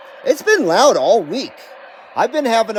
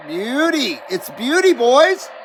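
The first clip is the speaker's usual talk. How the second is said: delighted; 5 semitones higher, slower than usual. Real, not acted. Delighted at the meter.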